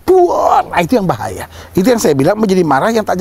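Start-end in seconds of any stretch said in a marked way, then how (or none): 0.0-0.7 high-pitched spoken burst; mock explosion noise; imitated explosion. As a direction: act out a sudden blow-up with your voice. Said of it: "Ada persoalan dikit meledak".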